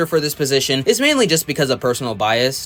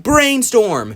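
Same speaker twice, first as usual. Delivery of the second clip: slow, higher, triumphant shout-out; hyped name call; 7 semitones higher, 3 dB louder than usual. Pretend. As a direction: draw the name out like a champion's introduction. Hyped name of favourite alien.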